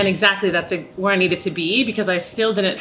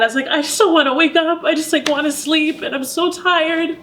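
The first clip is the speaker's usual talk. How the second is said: tearful, higher pitched, voice close to breaking; talking through real tears about being burnt out; crying; 5 semitones higher, 3 dB louder than usual. Real, not acted. Opera singer recalling her burnout, crying as she speaks. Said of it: "I'm sorry I'm crying".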